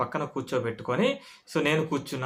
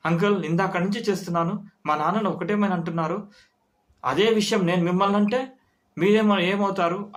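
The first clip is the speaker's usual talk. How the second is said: building from firm to higher, louder anger; retold anger, rising; 5 semitones higher, 3 dB louder than usual. Son confronts the uncle, anger building. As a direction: push back harder and harder. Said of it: "అని అన్నాడు కోపంగా".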